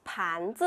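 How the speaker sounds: 盘 rising from low, 子 short and unstressed; second plus neutral tone. Shown as a demonstration. Teacher modelling second tone for learners, 盘 rising and 子 light. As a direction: say 盘子 with a rising first syllable, light ending. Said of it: "second tone plus neutral tone".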